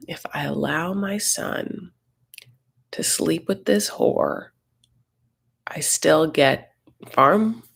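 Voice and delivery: hushed, slow whispered scheming, half to herself. Retold or imitated. Betty plotting to herself about her son, slow hushed whisper. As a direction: whisper the plan slowly like a secret.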